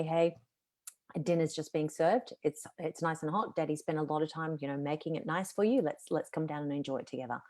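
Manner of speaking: soft, calm invitation at the bedroom door; a father softly asking his kids to dinner; gentle dinner invite. Shown as a demonstration. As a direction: invite them down kindly, no edge. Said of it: "I just say it literally like that".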